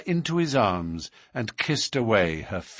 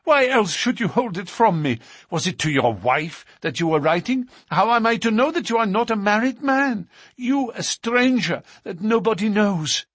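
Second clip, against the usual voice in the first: put-on higher, louder accusing young woman; jealous accusation, raised and loud; jealous outburst; 10 semitones higher, 4 dB louder than usual. A narrator's reading. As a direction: hurl the questions at him. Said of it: "she cried".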